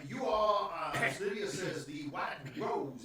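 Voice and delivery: put-on measured southern-accented gentleman. Host introduces his bodyguard dogs, southern accent. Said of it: "Why is he southern?".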